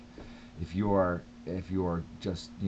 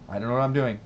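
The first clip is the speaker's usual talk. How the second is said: mock helpless excuse; 5 semitones higher, 7 dB louder, faster than usual. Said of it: "that's what I say".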